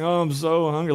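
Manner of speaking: hammed-up hungry moan; mock disgruntled. Preacher mimicking hypocrites showing off their fasting, mock disgruntled. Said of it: "show how disgruntled they are".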